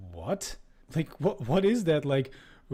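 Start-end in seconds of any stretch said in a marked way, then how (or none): 2.7-2.7 mock keening noise. Host mocks the book's description, rising keening noise. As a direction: imitate an absurd climbing wail. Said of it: "keening noise emanated from his mouth".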